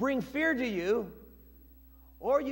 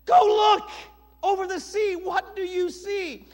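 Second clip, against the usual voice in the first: loud, high order to a servant; high, ringing command; prophet's command; 8 semitones higher, 6 dB louder than usual. Acted. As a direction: call it out commandingly, starting at full force.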